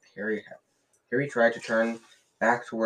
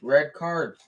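louder, higher, indignant insistence; furious; 4 semitones higher, 5 dB louder than usual. A narrator's reading. Dean insisting furiously to Ron, indignant and louder. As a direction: press the point hotly. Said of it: "said Dean furiously".

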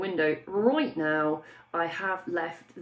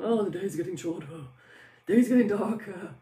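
complaining. Acted. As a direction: grumble it like a habitual complainer. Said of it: "complaining always goes on".

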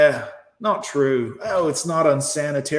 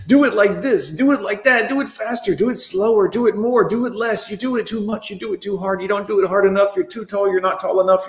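higher nagging list of demands; mocking woman's demands; 4 semitones higher than usual. Mimicking women's contradictory rules, higher and nagging. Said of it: "your stupid damn rules".

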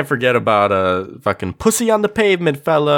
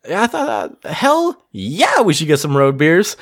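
eager cop quote; 2 semitones higher than usual. Retold or imitated. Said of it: "It's like".

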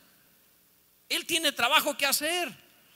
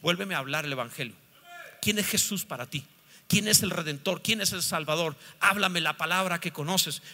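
gentle voice of Jesus; 6 semitones lower than usual. Acted. Jesus coaxing the discouraged disciple, gentle and low. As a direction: speak gently to a discouraged friend. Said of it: "viene y te dice".

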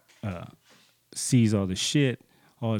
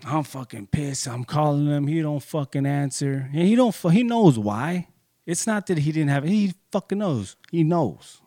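angry; 5 semitones higher, 5 dB louder than usual. Retold or imitated. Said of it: "So I'm pissed".

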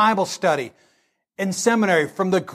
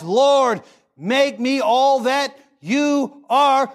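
a lightly voiced earnest prayer; 3 semitones higher than usual. Preacher leading the congregation in prayer, sincere. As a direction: pray it sincerely, slowly.

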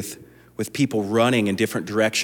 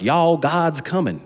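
southern drawl; 6 semitones higher than usual. Retold or imitated. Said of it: "We can tell by your southern accent".

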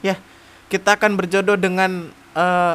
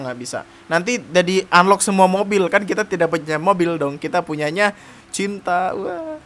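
ordinary talk

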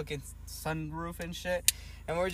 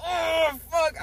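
sudden high startled "Oh, fuck"; retold oh fuck; 10 semitones higher, 4 dB louder than usual. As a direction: blurt it out, pitch jumping up in shock. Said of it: "I was like".

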